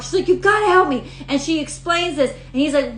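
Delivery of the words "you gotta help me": higher-pitched retold plea; imitated panic; mock freaking out. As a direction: plead frantically, as if retelling a movie scene. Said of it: "She's freaking out".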